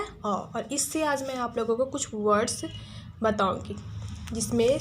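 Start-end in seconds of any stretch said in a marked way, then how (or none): 0.0-0.5 अ as a short, rounded aw; short a demo. Shown as a demonstration. Teacher answering her own question with the vowel अ. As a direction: model अ once more as a brief aw. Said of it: "क्या है?".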